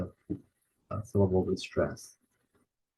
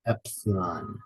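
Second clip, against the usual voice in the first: "Epsilon" as EP-si-lon, falling; first-syllable stress. Shown as a demonstration. Teacher showing stress, EP-si-lon for "Epsilon". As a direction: hit the start of "Epsilon". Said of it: "The stress is the first syllable again".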